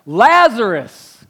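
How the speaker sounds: slow loud calling of the name. Acted. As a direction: call Lazarus loudly, drawn out. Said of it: "called out in a loud voice".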